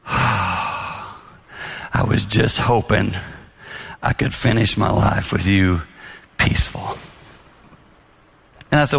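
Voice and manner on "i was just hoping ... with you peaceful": a hint of a wife fighting tears, very slow; wife near tears. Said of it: "She's crying a little bit".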